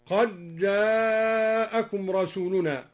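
slow recitation, "قد جاءكم" with d merged into j; idgham. Shown as a demonstration. Reciter demonstrating the verse, d assimilated in "قد جاءكم". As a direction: double the j of "قد جاءكم", dropping the d. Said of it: "وأدغم الدال من".

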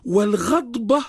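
والغضبة with a short "a" after the ghayn; fatha vowel. Shown as a demonstration. Scholar defines the word for the host, والغضبة with fatha. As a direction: say والغضبة slowly, opening on "ghad-". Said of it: "بالفتح".

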